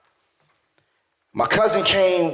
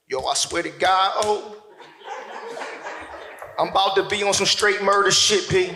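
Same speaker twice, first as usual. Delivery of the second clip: Mitch from Paid in Full. Acted. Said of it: "I went full Mitch from Paid in Full".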